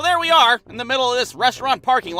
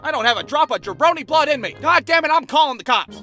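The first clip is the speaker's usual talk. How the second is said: angry driver; 4 semitones higher, 4 dB louder than usual. Retold or imitated.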